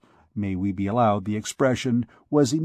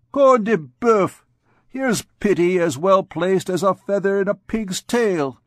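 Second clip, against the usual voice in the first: laughing oath; 7 semitones higher, 4 dB louder than usual. Acted. Captain laughing off the gypsy's pity for the bell-ringer. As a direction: bellow it through laughter. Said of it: "The captain burst out laughing".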